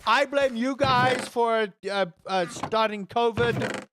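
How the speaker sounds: slow, drawn-out mock accusation; sarcastic. Streamer jokingly accusing chat of starting covid, sarcastic. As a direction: blame them absurdly, with relish. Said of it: "I'm being sarcastic".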